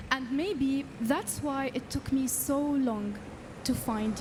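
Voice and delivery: measured spoken-word reading with long pauses; poem recital. Acted. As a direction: recite your own poem, letting each short phrase land. I'm gonna read it to you.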